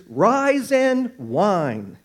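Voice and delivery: drawn out very slowly; mock whiner's motto. Preacher jokes about the whiner's motto, slow mock whine. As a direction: stretch it like a whiny slogan. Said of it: "their motto in life is".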